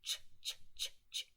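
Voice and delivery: whispered ch, ch; voiceless repeated ch; ch sound demo. Shown as a demonstration. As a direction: breathe out the ch sound softly. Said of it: "the C S".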